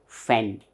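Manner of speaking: FANTASTIC split as fan, tas, tic; three separate strokes on "Fantastic", pausing between; syllable by syllable. Shown as a demonstration. Teacher counts three mouth openings, syllable by syllable. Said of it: "three times I am opening my mouth".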